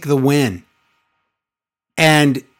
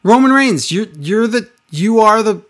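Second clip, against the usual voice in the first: retold yell; 6 semitones higher than usual. Manager hailing his champion as tribal chief, retold yell. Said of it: "Paul yells".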